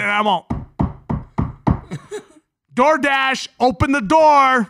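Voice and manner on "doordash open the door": loud demand, like police at the door; cop knocking. Retold or imitated. Demanding the pizza back at the door, loud cop-style call. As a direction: bang on the door with your voice like a cop. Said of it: "Sound like a cop knocking".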